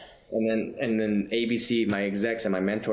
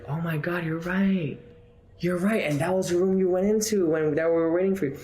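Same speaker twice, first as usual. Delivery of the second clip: excited realization; 8 semitones higher than usual. Retold or imitated. Producer realizing where the actor auditioned, amazed and high. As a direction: gush like it just clicked. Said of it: "Aaron was like".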